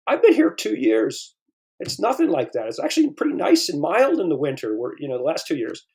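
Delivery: high, insistent voice that drops back at the end; incredulous protest. Retold or imitated. Narrator telling the bartender the truth, high indignant voice. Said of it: "and I said".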